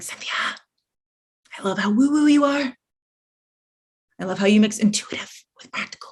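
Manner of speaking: confiding, secretive stage whisper. Retelling what high achieving women come and say: imitating a whisper. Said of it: "they all whisper".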